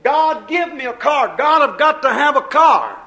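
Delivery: pleading loudly for a car; mock whining prayer for a car; begging prayer. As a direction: beg God like a greedy child. Preacher acts begging prayer for car.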